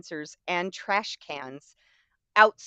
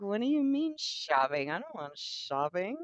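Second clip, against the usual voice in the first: put-on confused little boy; 6 dB quieter than usual. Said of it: "looks at his mother like".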